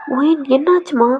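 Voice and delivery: worried mother repeating through the door; insistent repeat. Acted. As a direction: ask again, not letting it go. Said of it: "தட்டிக்கிட்டே இருக்காங்க".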